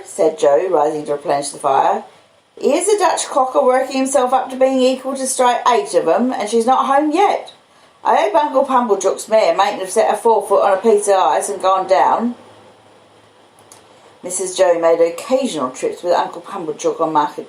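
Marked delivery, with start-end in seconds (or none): 2.6-12.3 higher, gentle country blacksmith voice; the kindly blacksmith Joe speaking earnestly to Pip; humble, earnest Joe; Joe's voice. Acted.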